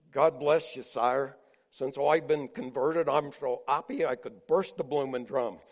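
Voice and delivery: a hint of a happy Cockney drummer; lightly voiced Cockney accent, gleeful. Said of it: "And in his Cockney accent".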